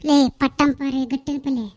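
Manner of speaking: loud insulting shout; angry insult. Acted. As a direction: hurl the insult at her. Hurling insults in quarrel.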